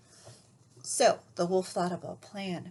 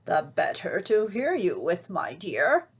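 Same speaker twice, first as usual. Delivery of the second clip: croaked; 2 semitones lower, 3 dB louder than usual. Acted. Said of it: "croaked the wolf".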